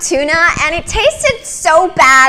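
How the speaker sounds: put-on bubbly valley girl rambling; ditzy blonde voice. Shown as a demonstration. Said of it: "a real ditzy one".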